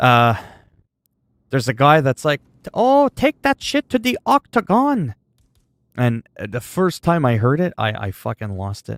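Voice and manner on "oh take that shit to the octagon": put-on Chinese accent, pitch way up. Streamer retelling a man in China speaking English: Chinese accent. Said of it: "they do the accent too when they're talking English".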